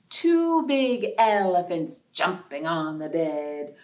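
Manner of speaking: sing-song nursery rhyme chant; counting rhyme. Acted. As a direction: bounce through it like a playground rhyme. Rhyme verse.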